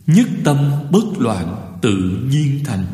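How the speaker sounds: slow, drawn-out Buddhist verse; verse recitation. Real, not acted. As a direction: intone each word of the verse slowly. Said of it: "tôi sẽ đọc qua bài kệ". (đọc kệ chậm rãi, kéo dài từng chữ)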